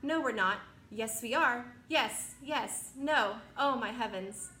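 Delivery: loud, rising back-and-forth panic; yes-no bickering in alarm; panicked squabble. Acted. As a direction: travelers arguing as they crash. Panicked argument among the travelers.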